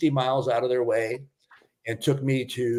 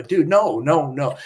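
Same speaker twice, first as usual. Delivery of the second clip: insistent refusal, pitched up and louder at first; retold protest; 3 semitones higher, 4 dB louder, slower than usual. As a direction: wave the money away, re-enacting it. Retold refusal of offered cash.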